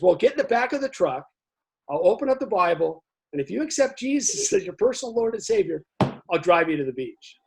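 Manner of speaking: hammed-up evangelist offering a deal; preachy driver. Preachy driver setting terms.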